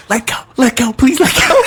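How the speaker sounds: high, pleading mock voice. Mimicking a woman begging a biting horse, high and pleading. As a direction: beg the horse to let go in a high, strained mock voice.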